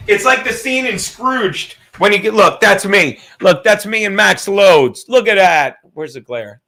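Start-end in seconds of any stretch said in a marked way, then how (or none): 2.3-5.8 excited showing off. Real, not acted. Proudly showing photo.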